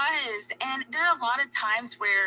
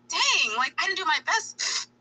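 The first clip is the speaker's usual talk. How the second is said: higher, mock dejected; imitating a let-down athlete; disappointed athlete; 9 semitones higher than usual. Athlete voiced walking off the court, mock dejected.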